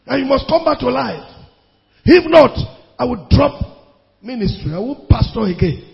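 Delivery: a preacher's fierce command at the sickbed; commanding the dead. Retold or imitated. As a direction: order the dead back to life with authority. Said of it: "I said".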